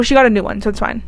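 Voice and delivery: casual, breezy write-off; offhand dismissal. Real, not acted. Vlogger brushes off a widow's loss, offhand dismissal. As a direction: toss it off as if replacing a phone. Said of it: "I don't know why I said it like that".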